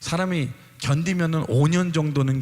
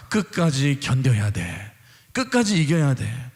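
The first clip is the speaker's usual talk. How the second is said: a loud, firm voice of God; God's reassuring voice; 4 dB louder than usual. Acted. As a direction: speak as God, calling then assuring. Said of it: "확실히 말씀해 주세요".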